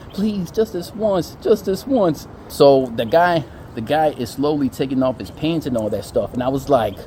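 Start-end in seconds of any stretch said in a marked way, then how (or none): 0.1-2.3 high, slow pleading imitation; hammed-up desperate begging; mock begging. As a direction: draw out the plea in a needy voice. Imitating the guy begging George.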